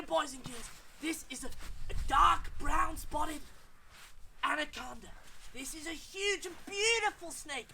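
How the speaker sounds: hammed-up Australian wildlife-show voice; bad Australian accent. Wildlife explorer handling a dangerous anaconda, excitable bad Australian accent. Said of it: "his Australian cousin, who's not got a very good Australian accent".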